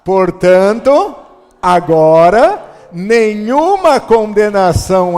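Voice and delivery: reading while smiling. Shown as a demonstration. Preacher leads church in reading Romans aloud, smiling slow and loud. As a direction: read it out grinning, showing your teeth. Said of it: "Sorrindo, hein?".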